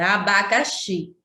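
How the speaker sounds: abacaxi, stressing the closing xi; careful classroom abacaxi, ending on a stressed xi; stress on final syllable. Shown as a demonstration. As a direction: sound out abacaxi so xi stands out. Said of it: "X-I é a sílaba tônica".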